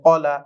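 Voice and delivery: "কলা" with a thick, full first sound; thick Arabic letter. Shown as a demonstration. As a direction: say "কলা" with a heavy ক. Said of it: "পড়তে হবে মোটা করে". ("কলা"-র ক মোটা করে উচ্চারণ)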